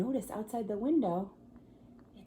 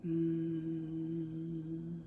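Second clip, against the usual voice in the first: fridge hum; 4 semitones lower, 3 dB quieter than usual. Shown as a demonstration. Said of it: "it sounds like this".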